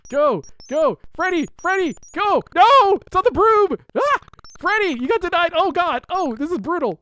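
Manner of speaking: high, loud frantic urging. Real, not acted. Streamer frantically urging Freddy on the broom. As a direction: push him on in a panic.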